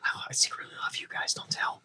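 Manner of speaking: whispered, quick dog confession; fast hushed whisper to the cats; secret whisper. Pretend. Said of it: "she's like".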